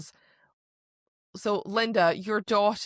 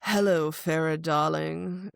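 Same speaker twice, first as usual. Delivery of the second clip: purring greeting; 4 semitones lower than usual. Retold or imitated. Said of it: "He purred".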